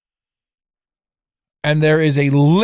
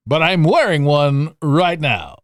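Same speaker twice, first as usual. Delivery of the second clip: slow, louder radio announcer voice; 4 dB louder, slower than usual. Shown as a demonstration. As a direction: deliver it like a smooth DJ. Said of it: "I'm doing my best radio voice".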